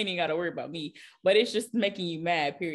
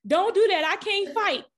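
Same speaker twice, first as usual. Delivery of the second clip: much higher and louder, laughing; friend's panicky voice; 11 semitones higher, 8 dB louder, slower than usual. Retold or imitated. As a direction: imitate a scared friend who can't fight. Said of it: "she was like".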